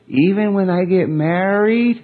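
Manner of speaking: lightly voiced small girl asking; a hint of a five-year-old's plea; little daughter voice. Daughter voiced in retold story.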